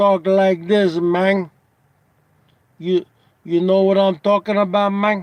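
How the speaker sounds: put-on Cuban Spanish accent. Describing a performer's character, the speaker imitates how he talked: Razor Ramon Cuban accent. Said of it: "But he would talk like this".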